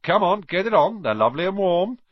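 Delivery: bossy big-brother push; demanding. Acted. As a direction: boss him into the jumper. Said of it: "George demanded".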